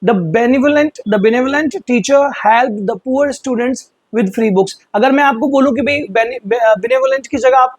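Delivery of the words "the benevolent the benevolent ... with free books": slow example read. Shown as a demonstration. Teacher reads the example aloud to students, slow and clear. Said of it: "अब example देख लीजिए".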